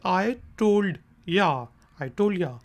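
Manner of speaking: quick casual I told ya, you squeezed to ya; fast reduced ya. Shown as a demonstration. Teacher showing the fast way to say it. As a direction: rush it, swallow the you into ya. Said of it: "थोड़ी तेज़ी में बोलना है".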